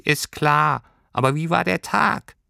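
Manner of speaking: hohes Figurenstimmchen; nachfragendes Pelztierchen. A narrator's reading. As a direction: geh hoch darüber hinweg und frag nach. Tierchen unterbricht und fragt nach. (hohe Tierchenstimme)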